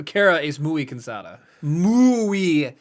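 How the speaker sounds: slow, drawn muy cansada; dragged-out tired. Pretend. Teasing Kara, slow exaggerated weary muy cansada. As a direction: stretch it out like you're exhausted. Dramatizing tiredness, slowed and strange.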